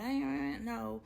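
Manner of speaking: a hint of a frantic, overreacting girlfriend; mock crazy chick. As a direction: lightly voice the clingy partner. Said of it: "I'm not that crazy chick who's like".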